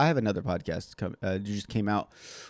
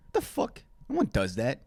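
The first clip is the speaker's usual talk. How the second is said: incredulous; 4 semitones higher than usual. Real, not acted. Reacting to the imagined diner.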